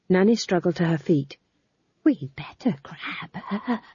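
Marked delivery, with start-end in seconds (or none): 2.0-3.8 slow breathy whisper. A narrator's reading. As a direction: keep it secret from Granny. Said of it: "she whispered to Magrat".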